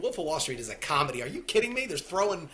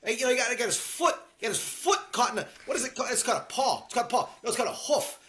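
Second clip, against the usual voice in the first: imitating Tommy; 6 semitones higher, faster than usual. Quoting the mom scene dialogue.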